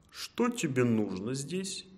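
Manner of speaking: slow, drawn-out wolf question; menacing wolf. Acted. Wolf questioning the cornered hare, slow menace. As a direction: draw it out like a predator toying with prey.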